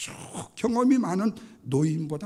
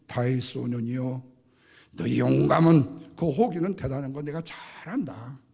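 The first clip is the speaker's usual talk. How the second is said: Saul; 3 semitones lower, 4 dB louder than usual. Acted. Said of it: "사울 왕마저도 하는 얘기가".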